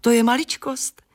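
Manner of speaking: light, cheerfully obliging; smiling. A narrator's reading. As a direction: toss it off with a smile. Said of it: "Usmála se beruška".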